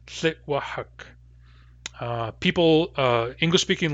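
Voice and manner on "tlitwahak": Tlitwahak with clear hard W and back H; careful model word. Shown as a demonstration. Teacher showing learners the hard word, carefully. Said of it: "Let's start with the word Tlitwahak".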